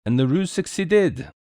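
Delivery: pleased with his ruse, lilting high; cheerful. A narrator's reading. Detective reports success to the lord, cheerful. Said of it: "said Poirot cheerfully".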